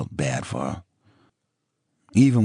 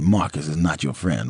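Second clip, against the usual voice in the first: disbelieving repeat. Acted. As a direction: echo it back in disbelief. He repeats her words in disbelief.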